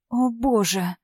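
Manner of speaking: a faint tremble on the exclamation; lightly shaken, barely above a breath; trembling voice. A narrator's reading. Yulia on the phone, shaken by the video, with a slight tremble. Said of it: "послышался в трубке дрожащий голос".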